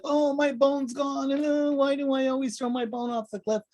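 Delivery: cartoonish high-pitched dog; dog's inner voice. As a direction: play the silly dog lamenting its lost bone. Voicing a dog's thoughts.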